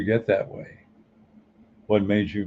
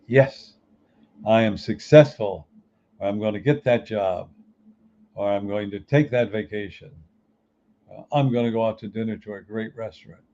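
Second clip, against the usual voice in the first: full of passion. Shown as a demonstration. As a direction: sell it like you truly believe it. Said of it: "did you hear the inflection of my voice".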